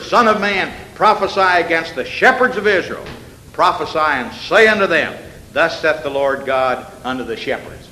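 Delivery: solemn preacher reading the verse; scripture reading. Acted. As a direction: give the verse weight.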